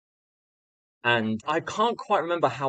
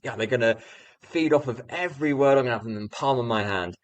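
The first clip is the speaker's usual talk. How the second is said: mock-cocky boast, a bit higher at the start; retold cockiness, lively and pushy; overconfident; 3 semitones higher than usual. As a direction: brag like an overconfident young teacher. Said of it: "I had all of this overconfidence".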